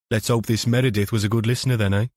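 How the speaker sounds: put-on a sneering older copper; gruff detective voice. KFC character voice.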